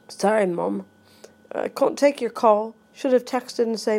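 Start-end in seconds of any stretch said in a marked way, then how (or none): 0.1-2.8 put-on British accent, long "ah" in can't; lightly put-on British accent. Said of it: "I'm talking with a British accent".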